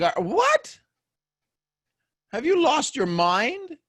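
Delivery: high-pitched, drawn-out disbelief; mock incredulous. Reacting to a friend's put-on accent, mock incredulous. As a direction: squawk it as if they've gone crazy.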